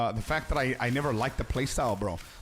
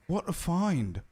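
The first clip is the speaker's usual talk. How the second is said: imitating character line; 4 semitones higher, slower than usual. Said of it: "your Deadeye Ranger is literally gonna say".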